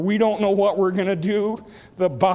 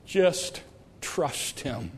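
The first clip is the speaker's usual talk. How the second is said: much softer and lower, intimate; soft urging; 7 semitones lower, 9 dB quieter, much slower than usual. Real, not acted. Preacher gently urging the congregation, very softly. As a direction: lean in and say it gently.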